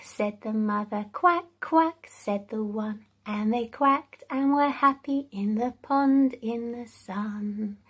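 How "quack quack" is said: quacking. Shown as a demonstration. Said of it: "join in with some of the sounds of the animals".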